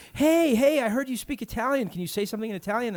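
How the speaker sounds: high, loud schoolyard taunt; taunting bully. Retold or imitated. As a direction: jeer it like a bully kid. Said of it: "They were like".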